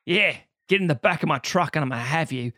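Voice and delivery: put-on Australian come-on; offensive Australian accent. Australian Sandy orders someone into truck, mock Australian accent. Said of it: "me doing the offensive accent".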